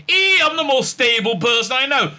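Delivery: high, loud protest; mock indignant shout. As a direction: shout it as the offended Doctor. Doctor protesting to Bell.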